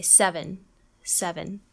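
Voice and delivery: seven as "sev'n"; seven with the second e swallowed. Shown as a demonstration. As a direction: join v directly to n in seven. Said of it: "connect immediately into the N".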